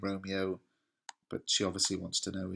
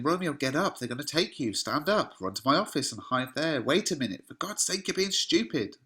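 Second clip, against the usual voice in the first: mildly urgent, raised pitch; worried; 5 semitones higher than usual. Retold or imitated. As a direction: hurry him along with acted worry. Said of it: "worried about the knocking".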